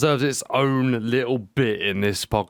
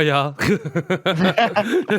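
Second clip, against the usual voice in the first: German "yah yah" with a laugh; German accent; 6 semitones higher than usual. Pretend. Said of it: "practicing your German".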